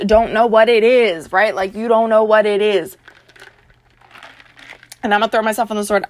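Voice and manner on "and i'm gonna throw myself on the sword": talking between sips of a drink; fast, drinking while talking; while sipping a drink. Real, not acted. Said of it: "I'm drinking my ketones while I'm talking".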